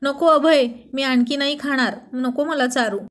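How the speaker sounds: drowsy protest, slow at the start; sleep-talking, pleading not to be fed; half-asleep mumbling. Acted. Wife talking in her sleep to husband, drowsy mumbling plea. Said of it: "अर्धवट झोपेतच बरळून म्हणाली".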